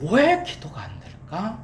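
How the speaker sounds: slow question with 왜 stretched out; stress on 왜. Shown as a demonstration. Preacher models the key question, stress on 왜. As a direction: draw out 왜, end on a rise. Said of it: "왜라는 말이 중요하다고요".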